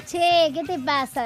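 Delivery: a hint of Argentine accent as she imitates how Coco talks; Argentine "che" impression. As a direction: mimic an Argentine buddy, lightly hamming the porteño lilt. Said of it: "Después no habla así".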